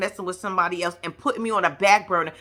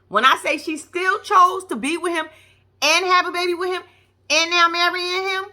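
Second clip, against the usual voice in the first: building rant; 7 semitones higher than usual. Real, not acted. Ranting at Kelly.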